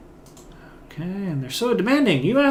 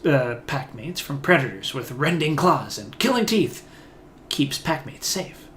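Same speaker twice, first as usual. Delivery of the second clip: lightly growled broken speech of a beastwoman; wary beastwoman talking in broken words. Acted. Voicing the beastwoman companion.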